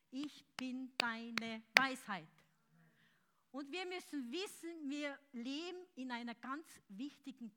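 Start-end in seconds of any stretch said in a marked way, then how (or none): 0.1-2.3 "Ich bin deine Weisheit" slow and loud; slow, loud proclamation; proclaimed aloud. Acted. Whisper then repeated aloud.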